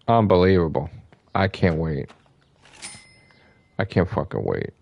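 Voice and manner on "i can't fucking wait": low murmur. Real, not acted.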